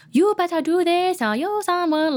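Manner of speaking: 3 lightly mimic the clumsy script line; 1 mock script voice.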